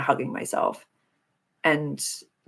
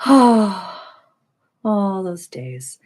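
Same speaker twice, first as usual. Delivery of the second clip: wistful sigh; 2 semitones higher, 7 dB louder, much slower than usual. Real, not acted. Remembering an old show: sigh then whisper.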